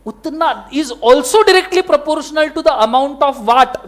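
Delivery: very slow, word by word legal rule; slow dictation. Shown as a demonstration. Teacher dictating the law to students, very slow. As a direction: dictate it slowly for notes.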